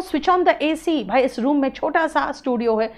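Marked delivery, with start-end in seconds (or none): 0.0-1.0 slow example reading. Shown as a demonstration. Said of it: "अगर मैं कहूँ".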